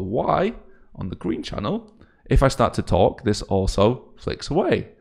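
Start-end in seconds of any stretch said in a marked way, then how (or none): 2.3-4.9 louder, projected test voice; raised demonstration voice. Shown as a demonstration. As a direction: speak up firmly to set off the display. Talks up to trigger the effect.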